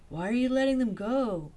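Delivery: demanding. Acted. Fiona demanding an answer from the guide. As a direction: press the question hard. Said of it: "demanded Fiona".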